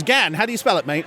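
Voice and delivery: matey Australian presenter; Australian radio host. Acted. Host quizzing the caller, light Australian accent. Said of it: "this Australian radio station's holding a contest".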